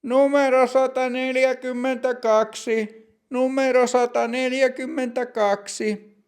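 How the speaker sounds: calling out a number. Acted. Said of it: "Virkailija huutaa".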